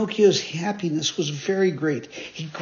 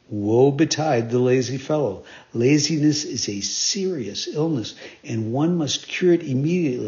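warning fairy; 2 semitones lower than usual. Acted. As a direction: warn him firmly.

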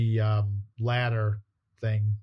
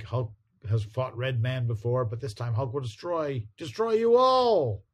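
Hulk voice; 2 semitones higher than usual. Retold or imitated. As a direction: build to a roar on destroy. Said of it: "And Hulk is like".

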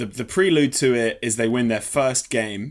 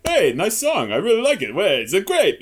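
enthusiastic praise; 8 semitones higher, 4 dB louder than usual. Retold or imitated. Acting out the man's friendly reaction.

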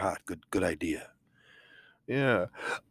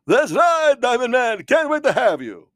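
much higher, cheery count voice; 10 semitones higher, 4 dB louder than usual. Acted. Count welcomes Diamond Man to the party, high and cheery. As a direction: pitch the count way up and gush.

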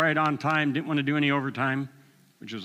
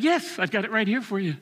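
much higher, delighted quick yes; eager God; 8 semitones higher than usual. Retold or imitated. God answering the repentant asker, eager and high. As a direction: play God beaming with eagerness.

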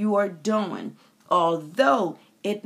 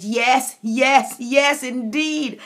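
happy agreement; 3 semitones higher, 5 dB louder, slower than usual. Retold or imitated. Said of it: "I said".

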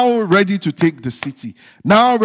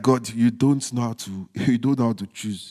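laughing, quieter mock grumble to God; mocking complaint; 8 semitones lower, 6 dB quieter than usual. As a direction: tease them by voicing their protest. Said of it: "I know you are like".

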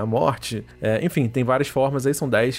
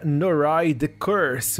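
title said with an American accent; slow, drawn-out American English reading of Noroi The Curse; 3 semitones higher, much slower than usual. Real, not acted. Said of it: "Eu falei com um sotaque americano". (sotaque americano)

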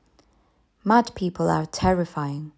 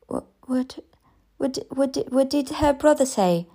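stammering whisper, higher; mother whispering in dread; faint whisper; 7 semitones higher than usual. Acted. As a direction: barely get the words out in shock. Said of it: "I asked faintly".

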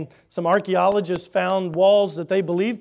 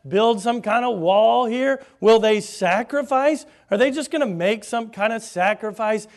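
mocking; 4 semitones higher, 5 dB louder than usual. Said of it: "And he says".

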